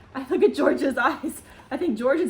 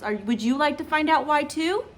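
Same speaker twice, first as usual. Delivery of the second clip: plain reading voice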